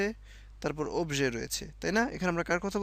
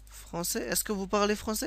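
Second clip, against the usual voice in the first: slow demo; 4 semitones higher, much slower than usual. Shown as a demonstration. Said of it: "টোনটা জরুরি না".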